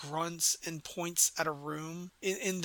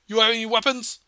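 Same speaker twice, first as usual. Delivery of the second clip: loud, raised question to a captive; talking too loud; 4 semitones higher, 9 dB louder, faster than usual. Acted. Boarder questions captive about weapons, too loud. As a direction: ask it too loudly, pitched up. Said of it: "he talks a little bit too loud".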